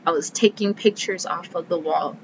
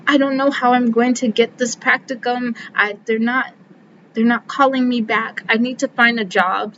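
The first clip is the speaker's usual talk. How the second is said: a mild, higher imitation of a panicked friend; imitating panicky friend; 4 semitones higher than usual. Friend on the phone worried about a practicum, mildly panicky. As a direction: echo her stressed-out friend lightly. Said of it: "who's also panicking".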